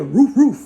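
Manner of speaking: loud playful woof, like a dog; mock dog bark. Lover mocking you to their partner, barking roof roof. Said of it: "talking about you like a dog".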